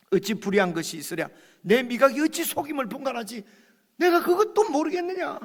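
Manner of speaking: heated. Acted. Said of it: "제가 너무 열을 낸 것 같아서".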